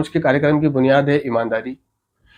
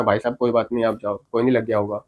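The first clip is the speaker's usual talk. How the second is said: lower, softer placating tone; polite, conciliatory; 5 semitones lower, 5 dB quieter than usual. Acted. Excusing a car driver courteously, politely hushed. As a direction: gently wave it off, voice lowered and softened. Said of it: "तमीज़ से बात करना".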